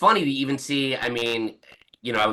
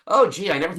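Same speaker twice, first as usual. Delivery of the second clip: higher, louder joking quote; mock wide-eyed wonder; 8 semitones higher, 6 dB louder, faster than usual. Fans joking online about being in his book, mock wonder. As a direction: put on playful disbelief, pitched up. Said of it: "joking with each other".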